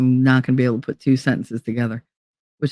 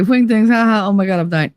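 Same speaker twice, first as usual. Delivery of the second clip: mock laughing friend; 5 semitones higher than usual. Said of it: "Inya had to say".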